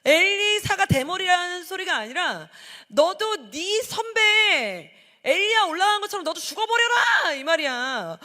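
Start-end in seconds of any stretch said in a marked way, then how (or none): 2.9-7.3 put-on jeering kids, higher and louder, slow; mocking taunt. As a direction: taunt him like spiteful boys. Mocking boys' taunt voiced. (비웃는 아이들처럼 높고 크게 조롱하며)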